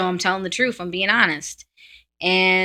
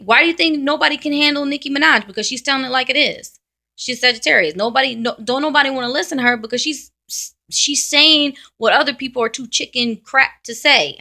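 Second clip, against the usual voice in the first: higher, louder and fast; heated rant; 5 semitones higher, 4 dB louder than usual. Real, not acted. Defending a rapper to doubters, heated and fast. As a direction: rattle it off in exasperation.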